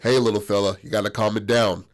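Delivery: a hint of a big strongman's growl; deep strong man voice. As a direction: drop the voice for the strongman. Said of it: "That was the deepest voice I've ever heard".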